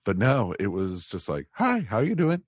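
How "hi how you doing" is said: imitating a friendly greeting, higher and in a British accent; light British impression of a kind giant; lightly done British hello, higher. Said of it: "A lot higher voice than I expected".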